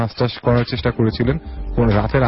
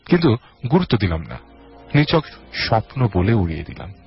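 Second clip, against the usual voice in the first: dramatic audio-story reading; story narration. A narrator's reading. Host reads a listener's horror story, dramatic narration. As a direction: narrate with swooping phrase openings that fall away.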